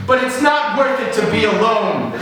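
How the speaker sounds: high, slow, loud sage advice; wise old Eric. Pretend. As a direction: preach it like a grizzled old man. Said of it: "I hear him and he goes".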